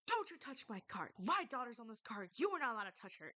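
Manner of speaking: half-acted angry mom scolding a stranger; retold angry scream. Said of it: "she starts screaming".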